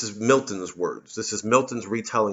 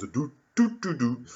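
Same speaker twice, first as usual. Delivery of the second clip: hummed pizzicato strings; 3 semitones higher than usual. Retold or imitated. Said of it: "play the stupid pizzicato strings".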